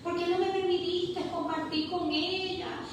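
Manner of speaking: high, sustained plea re-enacted; pleading with God. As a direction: plead upward to the Lord, drawing out each call. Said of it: "empiezo a preguntarle al Señor".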